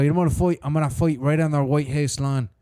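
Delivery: rough put-on Irish accent; Conor McGregor. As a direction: imitate an Irish fighter announcing a comeback. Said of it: "Conor McGregor".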